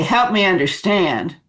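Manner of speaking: confrontational. Shown as a demonstration. Showing the wrong way to answer a critic, confrontational. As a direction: make "Help me understand" sound like a demand. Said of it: "that's confrontational".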